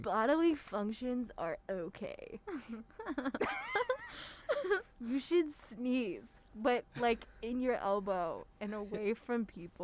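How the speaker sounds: slow, dreamy hippie guru; a light spacey flower-child lecture. Acted. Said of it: "the hippie voice for it".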